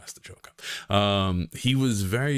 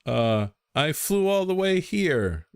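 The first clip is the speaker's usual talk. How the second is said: mock streamer greeting; 4 semitones higher than usual. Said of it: "let's just pretend this is a regular stream".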